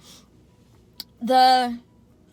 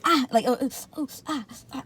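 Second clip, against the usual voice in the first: imitated pain gasps; 3 semitones higher than usual. Patient with sore abdomen after lipo, imitating pained gasps. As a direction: gasp as if the belly twinges. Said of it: "my abdomen just felt like".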